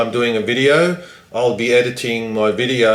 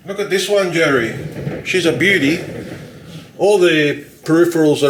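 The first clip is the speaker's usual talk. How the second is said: proud showing off; 5 semitones higher than usual. Real, not acted. Showing PC off to Jerry.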